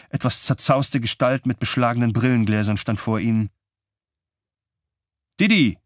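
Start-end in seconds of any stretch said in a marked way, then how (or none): 5.4-5.8 high, loud exclaimed name; calling out. A narrator's reading. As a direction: call out to a friend who just burst in. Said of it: "rief Klaus". (laut ausgerufen)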